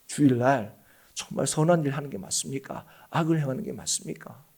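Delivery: quiet, grave appeal to the congregation; earnest questioning. Pretend. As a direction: ask it softly, as if in all seriousness. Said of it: "제가 정말 진지하게 묻습니다".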